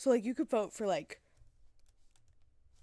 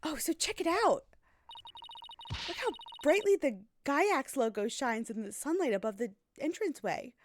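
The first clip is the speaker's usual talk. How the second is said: excited, higher-pitched sightseer; lively wonder, bouncing pitch; eager game character; 4 semitones higher than usual. Acted. Excited sightseer showing a companion the rockets, eager voice.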